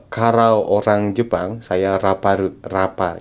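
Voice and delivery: Japanese accent, every L turned to R; mock Japanese accent. Shown as a demonstration. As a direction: imitate a Japanese accent, "kalau" as "karau". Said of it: "Jadi R".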